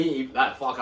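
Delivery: slight lisp from mouth cuts; lisping through a sore mouth. Real, not acted. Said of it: "I sounded like Mike Tyson trying to say that".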